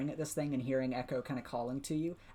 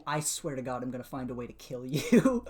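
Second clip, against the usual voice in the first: laughing requote; 5 dB louder than usual. Retold or imitated. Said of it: "you get the vibe after the".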